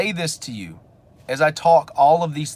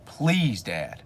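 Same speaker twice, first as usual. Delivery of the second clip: mock pleading; 4 semitones lower, 5 dB quieter than usual. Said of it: "He's begging for somebody".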